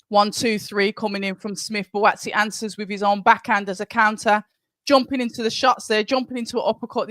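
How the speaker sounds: brisk ringside commentary; play-by-play commentary. Acted. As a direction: call the fight as it happens. Live fight commentary.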